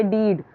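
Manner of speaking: "डीड" with a long ee vowel; long double-e. Shown as a demonstration. Teacher showing how double e reads, "डीड" with long ee. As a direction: draw out the ee in "डीड". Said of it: "double ई है तो उसको हम ऐसे पढ़ेंगे".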